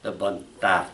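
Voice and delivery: "De bonnes tartes" with the weight on final "tartes"; accent at the end. Shown as a demonstration. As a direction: save the accent of "De bonnes tartes" for the last word. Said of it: "at the end, the accent".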